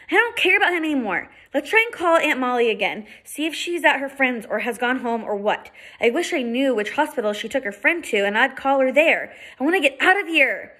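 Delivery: put-on high, fast anxious girl; girl pleads to leave, high and anxious; upset young girl. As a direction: hurry it, wanting out.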